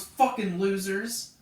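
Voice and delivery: slow, loud mock insult; imitated cussing. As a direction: mimic a contemptuous parting shot. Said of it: "cussing up a storm".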